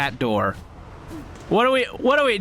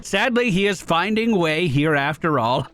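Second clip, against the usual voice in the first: lightly voiced chummy flea storyteller; a hint of a quirky flea traveller; flea character voice; slower than usual. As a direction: tell the caravan's tale as a cheerful bug.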